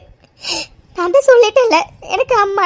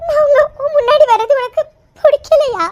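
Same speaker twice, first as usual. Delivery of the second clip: tearful; 3 semitones higher than usual. Acted. Mother pleading with daughter.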